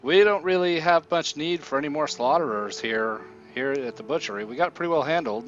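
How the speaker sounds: lightly voiced butcher turning away a job seeker; dismissive butcher. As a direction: raise the voice a little to decline the offer.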